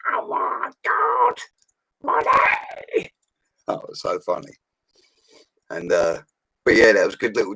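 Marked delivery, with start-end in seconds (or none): 0.1-3.1 very high, breathless shrieked panic; shrieking wife. Retold or imitated. Ronnie's wife discovering her smashed car, shrieking. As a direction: squeal in horror over the money. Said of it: "She went".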